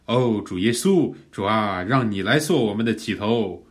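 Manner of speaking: earnest personal prayer from a verse; 活读祷告. Shown as a demonstration. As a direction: turn the verse into a heartfelt plea to the Lord. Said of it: "我们可以来进行一些活读". (恳切地向主祷告)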